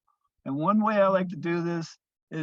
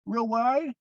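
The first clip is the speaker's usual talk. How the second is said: higher, yawn-stretched words; 7 semitones higher, 4 dB louder than usual. Shown as a demonstration. Teacher demonstrating a jaw stretch, mid-yawn. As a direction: open the jaw wide as you say it. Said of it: "maybe stretch out real good".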